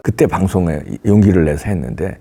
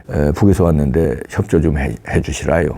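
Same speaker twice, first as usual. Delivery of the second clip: a lightly put-on North Korean accent asking a favor; 9 semitones lower than usual. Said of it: "사투리가 잘 안 되네".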